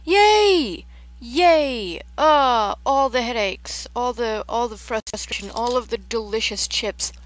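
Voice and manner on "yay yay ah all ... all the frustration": loud, high excited yay; excited cheer. Real, not acted. Cheering back into the game.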